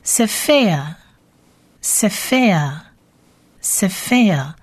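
"sefer" slowly, with long pauses between repeats; spaced teacher repeats of "sefer"; slow pronunciation drill. Shown as a demonstration. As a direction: model "sefer" for learners, stretching the second syllable. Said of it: "书卷".

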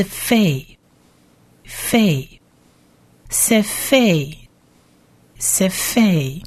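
费 as "fay", then 塞费 as "seh-FAY"; syllable-building demo. Shown as a demonstration. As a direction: build 费 up into 塞费, pausing between. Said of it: "我们念短母音a".

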